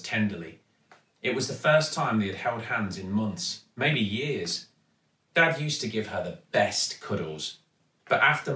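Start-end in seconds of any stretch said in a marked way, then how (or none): none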